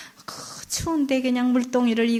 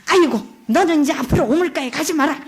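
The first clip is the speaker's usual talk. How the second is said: louder, bossy stepmother; stepmother orders; 3 semitones higher, 4 dB louder, faster than usual. Acted. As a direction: forbid her sharply. Stepmother forbids the girl.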